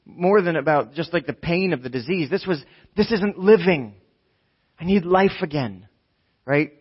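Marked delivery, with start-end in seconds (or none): 3.0-5.9 earnest, mildly raised appeal; a touch of desperation; desperate plea. Acted. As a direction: insist that you need this. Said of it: "This was desperation".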